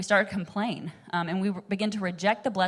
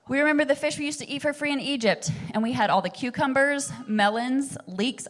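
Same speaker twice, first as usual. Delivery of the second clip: whiny complainer; 6 semitones higher than usual. Retold or imitated. Israelites complain about Egypt food.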